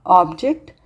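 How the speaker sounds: OBject, a thing; stress on first syllable. Shown as a demonstration. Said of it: "change in the meaning while stress is being changed".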